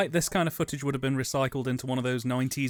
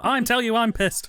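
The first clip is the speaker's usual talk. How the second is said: put-on loud, high drunken insistence; drunken shout; 8 semitones higher, 5 dB louder than usual. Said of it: "you're like".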